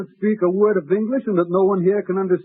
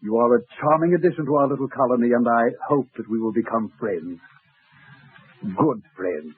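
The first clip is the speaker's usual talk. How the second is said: lightly put-on smooth charm, slowing on good friends; a hint of a smooth ladies' man; mock suave guest; 4 semitones lower than usual. Butler plays a guest courting Hester, lightly suave. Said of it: "pretending to be one of our distinguished guests".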